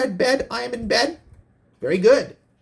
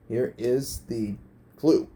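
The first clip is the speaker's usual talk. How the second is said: "Here is the clue" read lower and slow, a mock-grand announcer; 6 semitones lower, 5 dB quieter, slower than usual. Game host redoing his line for the contestants, mock-grand lower announcer voice. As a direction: drop low and drag out the words for mock drama.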